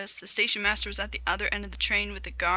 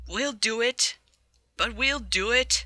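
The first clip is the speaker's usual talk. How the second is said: a hint of determined puffing; lightly chug it out in rhythm; puffing engines; 3 semitones higher, 3 dB louder than usual. Two engines pulling uphill together, lightly puffed. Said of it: "the two engines puffed together".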